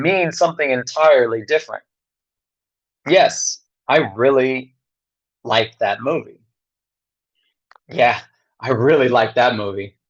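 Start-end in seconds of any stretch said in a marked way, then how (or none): 3.1-6.4 sincere. Shown as a demonstration. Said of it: "the first one, I probably authentically enjoyed the movie". 7.9-10.0 sarcastic. Shown as a demonstration. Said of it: "I was being sarcastic or ironic or snarky or cynical".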